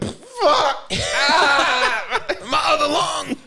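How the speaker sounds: high, pained mock cry; mock pain yell. Goku's body hit hard, high hammed-up pain yelp. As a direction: yelp like you just got punched. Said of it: "This nigga".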